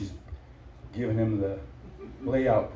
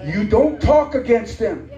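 stern warning; 10 semitones higher, slower than usual. Acted. Pastor warning the congregation against cursing God's people, slow stern preaching. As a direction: lay it down slowly like a warning.

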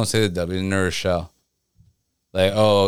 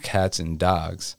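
Mass accent; 4 dB quieter, much slower than usual. Shown as a demonstration. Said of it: "that accent is like".

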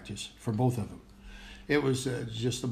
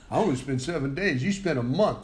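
teasing Ali; 2 semitones higher, 3 dB louder than usual. Retold or imitated. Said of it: "Ali used to tease him about it".

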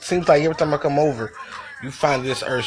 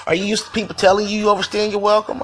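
higher, heated retelling of his own protest; incredulous pushback; 6 semitones higher than usual. Retold or imitated. Retelling to viewers how he answered her accusation, high and incredulous. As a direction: push back high and disbelieving, as if she's crazy. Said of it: "I'm like".

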